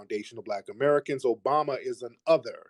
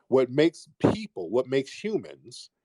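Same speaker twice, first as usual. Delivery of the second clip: domineering. Real, not acted. Lecturing slowly to opponent.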